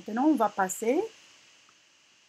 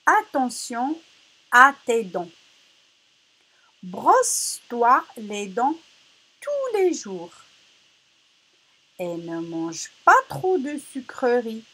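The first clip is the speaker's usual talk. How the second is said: careful read-aloud; 2 semitones higher, 4 dB louder, slower than usual. Shown as a demonstration. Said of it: "on va lire la phrase".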